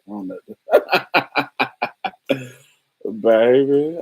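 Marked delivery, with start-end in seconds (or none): 3.2-4.0 loud exclamation. Real, not acted.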